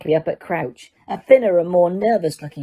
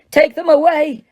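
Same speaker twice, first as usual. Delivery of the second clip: much higher, loud roar; 10 semitones higher, 5 dB louder than usual. Acted. Judge roaring at the Dementors. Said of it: "Crouch roared".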